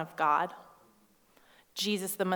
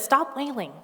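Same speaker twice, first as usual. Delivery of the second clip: curt command; 5 semitones higher than usual. Retold or imitated. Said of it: "He actually probably said it nicer than that".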